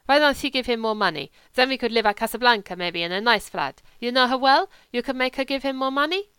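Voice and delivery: a hint of a lazy wolfish German drifter; German legionnaire. German voiced in the story.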